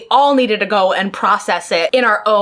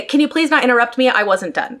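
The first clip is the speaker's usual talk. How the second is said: short and simple. Retold or imitated. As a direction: make it short and simple, no fuss. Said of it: "very short and simple like that".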